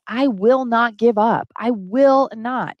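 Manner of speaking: slow, firm resolve; slow, steady promise to never give up; determined vow. Retold or imitated. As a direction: dig in and refuse to quit.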